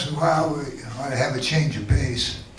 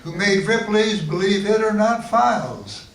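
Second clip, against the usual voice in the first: measured, lilting limerick reading; limerick recital; 2 semitones higher than usual. Acted. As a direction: recite it as comic verse. Recites own comic limericks.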